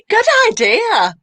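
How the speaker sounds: high giggly slow words through a laugh; laughing while talking. Real, not acted. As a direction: say it mid-laugh. Host laughing at the joke.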